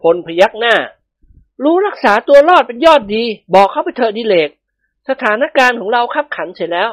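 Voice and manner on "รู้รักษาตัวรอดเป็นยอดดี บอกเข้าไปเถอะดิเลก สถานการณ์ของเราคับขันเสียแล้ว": higher-pitched male character voice; yielding husband. A narrator's reading. Phon tells Dilek to confess, resigned urging. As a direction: advise surrender in a raised voice.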